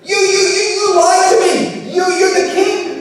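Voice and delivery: terrified shriek. Acted. Witch realizes she faces the king, terrified shrieking. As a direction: scream the accusation in panic. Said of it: "And she shrieks".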